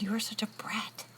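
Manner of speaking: high, mock-exasperated scolding; mad mom. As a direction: imitate a mother fed up with her bratty kid. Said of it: "She'd get so mad at me".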